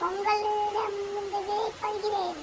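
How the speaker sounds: slow, level-toned farewell announcement; formal sign-off. Pretend. Vlogger taking leave of viewers, mock-formal sign-off. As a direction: stretch it out like a ceremonial goodbye.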